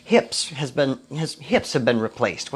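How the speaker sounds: tripping over the words; stumbling, restarting the phrase; stuttering. Real, not acted. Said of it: "I'm stuttering".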